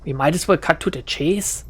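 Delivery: put-on exasperated giving-in with a German accent; frustrated German accent. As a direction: give in crossly in a German accent. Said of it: "shakes her head in frustration".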